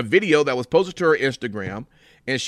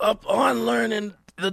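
put-on raspy executive voice, higher; 8 semitones higher than usual. Reading a tweet aloud as its author after being asked: John Laurinaitis voice. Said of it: "Let me see if I can".

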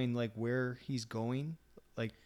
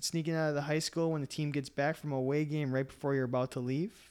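plain

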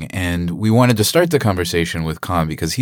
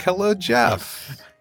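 put-on cheerful voice, pitched higher; 12 semitones higher, 3 dB quieter than usual. Welcoming a co-host onto the podcast: fake happy greeting. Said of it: "why are you guys always so fake happy?".

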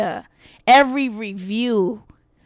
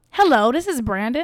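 put-on proper, polished, formal-sounding voice. Imitating another speaker's work voice on a call: imitating a friend's code-switched phone voice. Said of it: "you switch it up".

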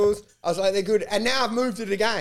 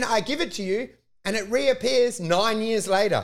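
ordinary delivery

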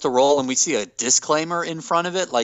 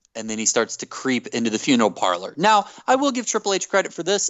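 ordinary talk, nothing marked

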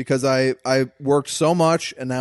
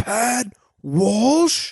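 big, booming, pitched-up call; 9 semitones higher than usual. Retelling a stranger calling out his name from across the bar: booming voice. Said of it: "I hear a booming voice go".

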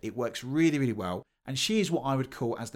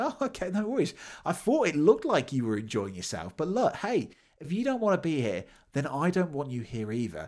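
put-on cool, unemotional sarcasm, swooping sing-song; 4 semitones higher than usual. Recalling the speaker's reply to people embarrassing their team: retelling a sarcastic reply. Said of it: "So I replied in a sarcasm way again".

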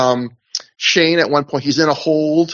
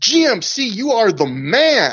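put-on very slow, eager, drawn-out, swooping man's voice; 7 semitones higher than usual. Retelling what one man says to another after a promo, imitating someone so enthusiastic. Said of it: "Like he's so enthusiastic".

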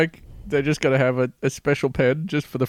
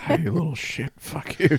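quiet voice, muttered under the breath; 4 dB quieter than usual. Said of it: "often in a quiet voice".

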